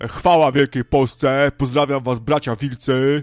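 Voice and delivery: very loud, flag-waving nationalist blustering. Describing how patriot callers talk when they phone in, imitating a patriot caller. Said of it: "to mówi tak, nie? Jak ja teraz".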